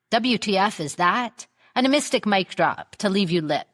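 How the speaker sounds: upbeat show opener read; podcast intro. Acted. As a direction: announce the show with swagger.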